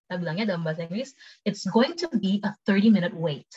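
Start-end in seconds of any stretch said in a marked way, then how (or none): 1.5-3.5 quicker, flowing sentence; conversational model for learners; quick take. Shown as a demonstration. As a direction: say it at everyday speed. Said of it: "cepet sama pelan".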